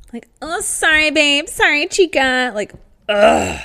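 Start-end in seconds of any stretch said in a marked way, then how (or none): 0.4-2.5 very high, drawn-out, mocking put-on voice. Complaining about annoying people, the speaker mimics them in a mocking high-pitched voice. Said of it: "the higher your voice".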